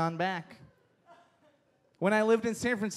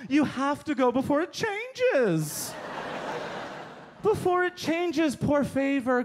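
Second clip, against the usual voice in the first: higher, gushing mock of a travel-bragging tourist; 3 semitones higher than usual. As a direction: rave about Cuba in a breathless, higher, fake-awed voice. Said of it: "Have you heard people talk like this?".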